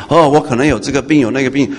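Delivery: a sudden mock-alarmed "哦" at ordinary volume, rising; imitating a churchgoer jolted by a new worry; alarmed worrier. Preacher mimicking a churchgoer suddenly alarmed by another imagined illness, mock-alarmed. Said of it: "你不要在那边胡思乱想".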